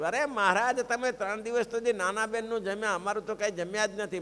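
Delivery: a jealous elder sister's hurt outburst; indignant protest. Acted. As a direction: protest with offended surprise.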